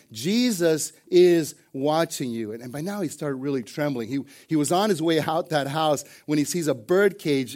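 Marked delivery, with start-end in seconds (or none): 0.1-2.5 slow, drawn-out voice from the darkness; slow, mildly spooky pronouncement; mysterious voice. Acted. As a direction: stretch it into a lightly eerie warning. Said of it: "suddenly the voice came again".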